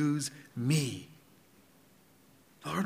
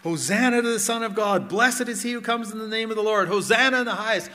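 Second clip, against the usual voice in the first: joyful crowd cry, imitated, higher and louder; 4 semitones higher, 4 dB louder than usual. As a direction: hail him like the cheering crowd. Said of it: "they're crying out".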